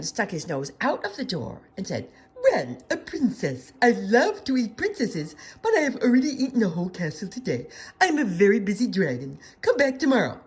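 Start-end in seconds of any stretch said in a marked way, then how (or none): 2.4-10.4 loud, booming dragon brushing her off; a busy dragon laughing at the princess. A narrator's reading. Dragon at the door, dismissing Elizabeth, loud and gruff. Dragon voiced in read-aloud story.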